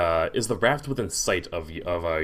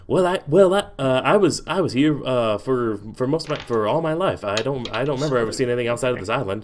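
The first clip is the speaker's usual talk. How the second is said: higher-pitched, hesitant fox; raised fox character voice; talking fox; 4 semitones higher, 3 dB louder than usual. Acted. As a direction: stammer along as a fox finding its words. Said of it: "Coffee looks at you and says".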